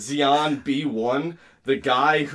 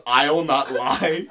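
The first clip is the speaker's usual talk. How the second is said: after laughing hard; 3 dB louder, much slower than usual. Real, not acted. Reading while still laughing.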